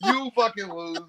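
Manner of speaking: badly faked Australian accent; mock-boastful attempt at an Australian accent; bad Aussie accent. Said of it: "you started off kind of Aussie".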